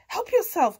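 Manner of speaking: lightly voiced storybook pig; grunting pig. A narrator's reading. Pig answering cat's request, lightly grunting pig voice. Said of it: "grunted Pig".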